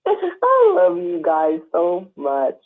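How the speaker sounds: choked up, slow and tearful; emotional. Real, not acted. Woman telling her friends she loves them, emotional. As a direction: let affection well up slowly. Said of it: "I get emotional".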